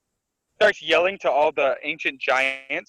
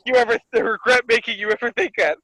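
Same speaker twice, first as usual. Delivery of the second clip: angry; 6 semitones higher, 4 dB louder than usual. Retold or imitated. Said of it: "he's like".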